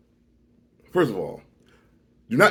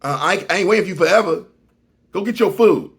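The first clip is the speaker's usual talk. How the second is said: dismissive driver; 5 semitones higher, 5 dB louder than usual. Retold or imitated. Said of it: "this is how he wrote".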